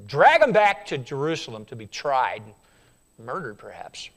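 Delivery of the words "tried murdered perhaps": hushed whisper. Acted. Preacher whispering the grim possibility to congregation. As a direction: breathe it out unvoiced.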